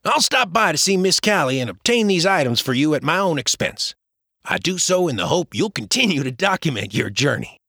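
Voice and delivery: lightly voiced James, generous; James, friendly.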